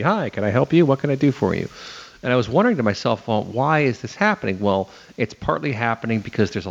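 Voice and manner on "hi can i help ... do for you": chatbot greeting. Acted. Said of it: "a chatbot popping up quickly".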